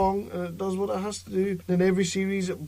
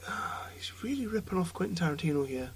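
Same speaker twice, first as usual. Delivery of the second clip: whispering; 6 dB quieter than usual. Retold or imitated. Retold thought while watching film.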